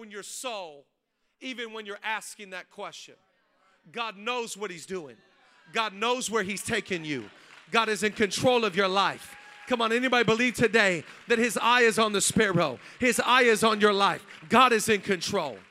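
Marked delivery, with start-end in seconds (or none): 5.7-15.6 loud, ringing preacher's declaration; preaching at full force. Real, not acted. Pastor assuring the church that God is in control, shouted. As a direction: proclaim it over the whole room.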